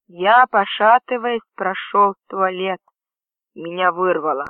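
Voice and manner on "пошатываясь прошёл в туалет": ordinary delivery, nothing marked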